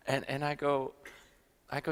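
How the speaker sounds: ordinary talk, nothing marked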